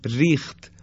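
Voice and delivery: ریخت with a thin, light R. Shown as a demonstration. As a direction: keep the R of ریخت fine. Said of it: "این نازک ادا کردن در این کلمات". (ریخت با «ر» نازک)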